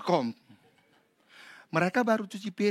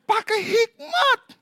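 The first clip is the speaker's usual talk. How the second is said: pained yell; 7 dB louder, slower than usual. Retold or imitated. Echoing the pained patient.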